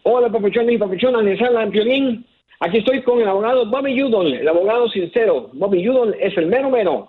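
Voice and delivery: sample ad read. Shown as a demonstration. Caller giving the host a sample of the ad. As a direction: rattle off the jingle and the number. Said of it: "Vamos con ese primero".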